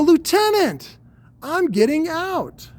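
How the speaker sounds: high, loud parade-ground bark, slowly; hammed-up military report; mock snappy soldier. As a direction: sound off like a cheeky airman at attention. Snappy salute, mock formal.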